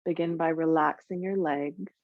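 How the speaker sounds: calm meditation guide with long, restful pauses; guided meditation. Acted. Yoga teacher easing students into Yoga Nidra, guided meditation voice. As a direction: ease them gently into rest, leaving space between phrases. Begins leading the guided relaxation.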